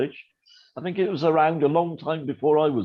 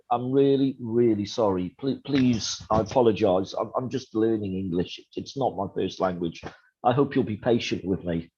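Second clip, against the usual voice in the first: mock-humble apology in a lowered pitch; sarcastic apology; 5 semitones lower than usual. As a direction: plead politely with dry irony. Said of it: "Britain's default position sometimes is sarcasm".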